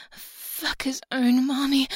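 rising passion; heated, loud and slow. Acted. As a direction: let it swell and slow down. Builds to a loud moan.

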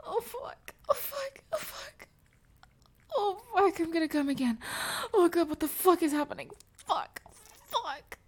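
high, gasping moans, some crying out; high pleasured gasps, voice cracking; breathless moaning. Acted. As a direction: lose control in high moans. Climax moaning at start.

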